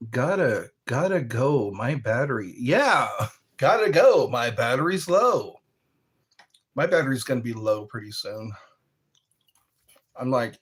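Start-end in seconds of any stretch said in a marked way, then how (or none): 3.6-5.6 laughing. Real, not acted. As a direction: laugh through it. Repeated catchphrase.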